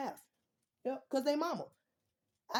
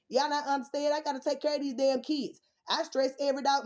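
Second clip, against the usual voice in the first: louder, higher frustrated shout; heated outburst; 5 semitones higher, 5 dB louder than usual. Real, not acted. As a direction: vent at the viewers who don't get it. Heated rant at the audience.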